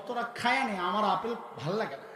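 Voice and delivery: a mother's soft, quiet fib; soft pretend. Mother quietly tells her children to eat the apples, softly. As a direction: say it softly, hiding her own hunger. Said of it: "মা আস্তে করে একটা অভিনয় করে বসলেন".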